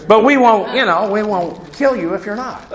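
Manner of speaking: chuckling through the words; laughing joke. Real, not acted.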